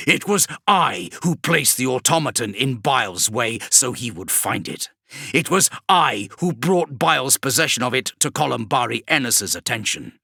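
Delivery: a hint of a gloating demon; lightly voiced demon. Demon Vashtor gloating over Kravrek, lightly voiced. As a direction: let the demon savour its reveal.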